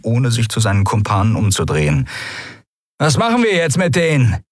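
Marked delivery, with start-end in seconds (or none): 3.0-4.4 sneering creature voice. Acted. Drugged Draxyl mocking prisoners.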